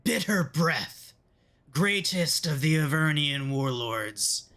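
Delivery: high, slow, proclaiming imp voice; little imp. Acted. The imp announces its devil master to the party, high and grand. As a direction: herald the warlord like a tiny squeaky imp. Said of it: "a little imp hops up onto his shoulder and says".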